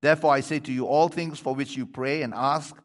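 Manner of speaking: measured, projected Bible reading; scripture reading. Acted. Preacher reading the colt story to the congregation, projected reading voice. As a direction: read the passage out clearly to the congregation.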